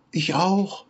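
very high peeping chick voice; baby chick. A narrator's reading. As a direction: peep it like a tiny chick. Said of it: "erklärte das Küken".

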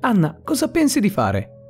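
furious exclamation. A narrator's reading. Manager rebukes Anna over the camera footage, mildly furious. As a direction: narrate the manager's anger with a lifted pitch. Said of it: "esclamò, furioso".

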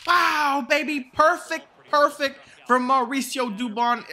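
high, loud delighted cheering; thrilled cheer. Real, not acted. Gamer thrilled by a perfect swing, high loud cheer.

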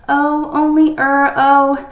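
high, loud, drawn-out stalling; guilty hedging. A narrator's reading. Boy hedging to his father about candy, guilty and evasive. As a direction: hesitate on each word, reluctant to confess.

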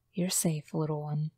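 soft, gentle comfort; tender reassurance. Acted. Finn comforting the penguin, soft and tender. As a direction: reassure the little bird quietly.

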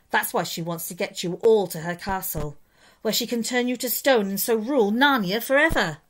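friendly storybook beaver sharing urgent news; lightly voiced Mister Beaver. Beaver explains Aslan.

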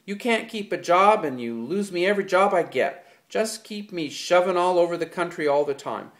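loud, high furious accusation. A narrator's reading. George blaming Lenny for lost jobs, furious. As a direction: hammer each complaint home. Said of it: "George went on furiously".

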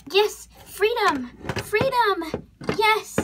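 high, drawn-out triumphant cheers; jubilant. Acted. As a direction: celebrate a great escape. Horse escapes from stall.

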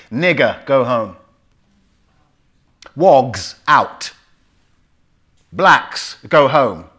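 forceful slogans. Retold or imitated. Racist graffiti read out.

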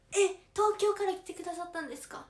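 high, loud delighted surprise; surprised. Real, not acted. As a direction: burst out in amazed gratitude. Learns fan came from Tokyo.

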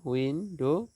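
"উইন্ডো" as two beats, উইন, ডো; a small break inside "উইন্ডো"; split into syllables. Shown as a demonstration. Teacher dividing syllables for students, "উইন্ডো" split in two. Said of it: "syllable বিভাজন".

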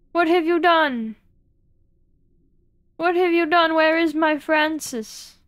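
hammed-up panic. Streamer to vanished mermaid Francis, hammed-up frantic shouting. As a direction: wail for the lost mermaid in mock horror.

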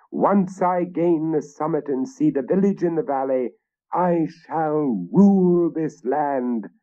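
high, ringing commands; rally the knights proudly; commanding king. Acted. King ordering the advance.

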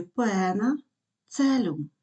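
"пена, целюм" with a single E sound; digraph read as E. Shown as a demonstration. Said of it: "Е в слові".

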